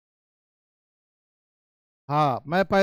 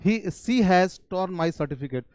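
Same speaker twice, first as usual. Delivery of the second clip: slow model sentence; much slower than usual. Shown as a demonstration. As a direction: spell each word out slowly. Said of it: "और देखिए". (धीमे पढ़ाते हुए)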